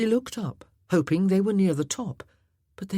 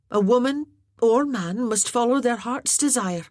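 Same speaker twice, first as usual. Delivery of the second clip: higher, louder, lively and wry; lightly voiced Maggie, teasing; spirited young woman; 8 semitones higher, 5 dB louder than usual. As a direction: build the image, then land the blunt end.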